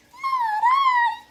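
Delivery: very high, loud mouse voice; squeaky mouse. Acted. Mouse refuses to help the little red hen, squeaky. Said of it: "said the mouse".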